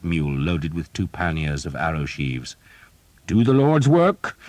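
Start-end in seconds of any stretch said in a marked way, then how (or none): 3.3-4.4 high, slow fervent priest; priest's battle urging. Acted. Father Hobb urging Thomas in battle, high and slow. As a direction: urge the archers on like a fighting priest.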